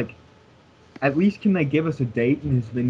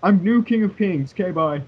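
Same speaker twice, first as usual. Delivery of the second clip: higher-pitched, breezy mock sign-off; mock abrupt brush-off; 5 semitones higher than usual. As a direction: toss it off as a curt, mocking goodbye. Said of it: "could you have been more abrupt".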